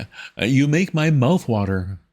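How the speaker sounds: high, slow, fumbling toff; flustered young gentleman. A narrator's reading. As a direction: stammer like a rattled young gent. Wooster voiced in story.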